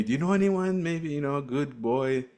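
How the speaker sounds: put-on the Romanian father asking about a husband, lightly accented; mock Romanian accent. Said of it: "I don't know if that's the accent".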